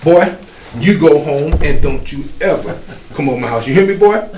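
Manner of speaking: put-on a mother shouting a small boy away from her daughter, high and loud; angry mother. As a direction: scold the little boy off your porch. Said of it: "she goes".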